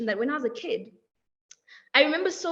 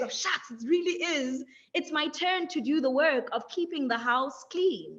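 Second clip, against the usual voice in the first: reluctant grumble; 3 dB quieter than usual. Retold or imitated. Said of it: "tail between your legs".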